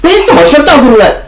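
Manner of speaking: sudden high, loud snap at the dog; mock yell. Friend in the car yelling at him to shut up, loud high yell.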